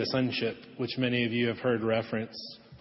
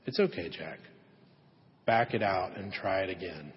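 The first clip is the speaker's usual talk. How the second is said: lower, gentle and reassuring, like a kind boss; gentle reassurance; 3 semitones lower than usual. Retold or imitated. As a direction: ease him through his mistake gently. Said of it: "and he gently says".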